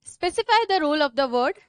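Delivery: slow dictation, words spaced apart. Shown as a demonstration. Teacher dictating the definition to her class. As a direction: spell it out at writing speed.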